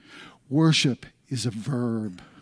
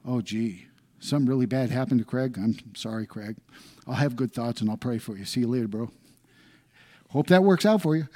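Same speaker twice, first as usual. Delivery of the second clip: mock hollow sympathy. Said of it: "he could be a good Gnostic".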